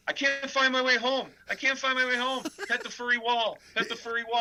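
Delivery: high, dazed movie-quote voice; high dazed mumble; quoting a stoned movie line. Retold or imitated. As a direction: drone it like a lost stoner. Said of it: "what's that one?".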